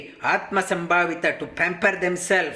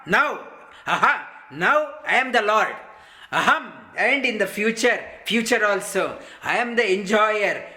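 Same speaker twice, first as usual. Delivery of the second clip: arrogant boaster; 2 semitones higher than usual. Retold or imitated. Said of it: "and they talk like this".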